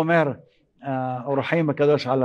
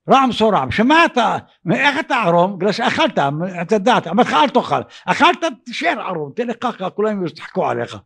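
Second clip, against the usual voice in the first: higher-pitched, indignant telling-off; mock reproach in a raised pitch; acted scolding; 4 semitones higher than usual. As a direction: scold as if saying "I warned you". Imagined scolding of naked Adam.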